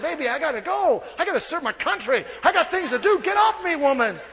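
hammed-up young sailor pulling away; mock exasperation with a grin; young sailor telling his girlfriend he must go; playful protest. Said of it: "I said".

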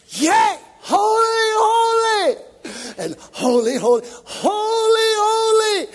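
ecstatic shout of holy. Retold or imitated. Preacher joining the angels' praise, ecstatic loud cry. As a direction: whoop it up, answering the angels. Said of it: "and I'm going".

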